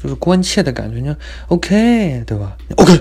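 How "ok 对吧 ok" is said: curt OK. Retold or imitated. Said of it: "就这种语气，“OK".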